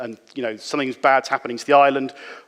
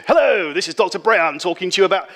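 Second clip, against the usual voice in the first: lightly put-on posh English voice; a hint of a plummy narrator; 5 semitones higher, 3 dB louder than usual. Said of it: "doing my posh voice of".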